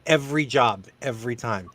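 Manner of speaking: a hint of a delicate manager. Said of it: "had that conversation to me".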